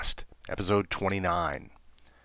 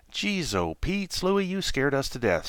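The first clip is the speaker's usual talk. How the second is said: higher startled bear exclaiming; 6 semitones higher than usual. Acted. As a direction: jump at the fright. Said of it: "Schlepp exclaimed".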